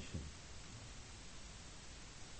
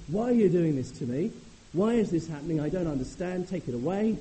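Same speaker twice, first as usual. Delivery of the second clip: loud, high, demanding complaint; accusing plea; 6 semitones higher, 8 dB louder than usual. Pretend. Preacher acting out a doubter's outburst at God: loud, high, accusing. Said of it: "if we come and say".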